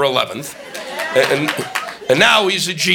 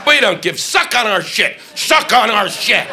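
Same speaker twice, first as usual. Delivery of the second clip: arrogant taunt; 5 semitones higher, slower than usual. Retold or imitated. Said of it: "We go".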